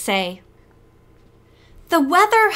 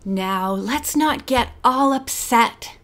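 slow, gentle soothing; calm her down, slowly; slower than usual. Acted. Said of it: "in a soothing tone of voice".

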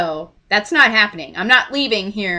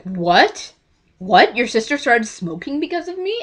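imitated disbelief, rising questions; freaked out; 2 semitones higher than usual. Actor told he made someone's sister smoke, freaked out. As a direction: repeat it as if stunned by the accusation. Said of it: "He was all freaked out".

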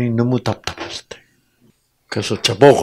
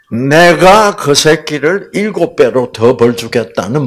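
louder, higher vow of vengeance; acted threat; 4 semitones higher, 6 dB louder than usual. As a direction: threaten punishment with acted anger. 복수를 다짐하는 말을 연기. (화난 척 목소리 높인 엄포)

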